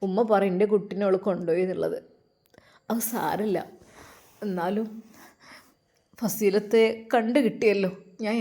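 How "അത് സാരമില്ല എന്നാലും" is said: breathy hushed reassurance; a gentle whisper that it's fine. Acted. Whispering to the mother that it doesn't matter.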